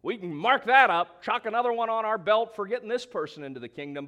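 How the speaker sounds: high, loud whooping celebration; hammed-up victory whoop; excited cheer. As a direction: cheer like an evangelist tallying converts. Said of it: "a statement like that would be like".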